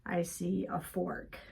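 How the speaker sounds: slow, calm listing of things seen; name each thing slowly and gently; calm grounding exercise. Shown as a demonstration. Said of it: "I'm gonna do mine out loud".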